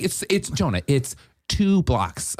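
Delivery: mock insistence, starting high, then stretched out; mimicking Dan. Friend minimizing the drive, slow mock insistence. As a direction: mimic a friend arguing, slowing on the distance. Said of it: "he's like".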